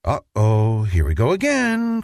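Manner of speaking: a mother bracing for another fight; lightly voiced exasperated mom. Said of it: "cried Mother".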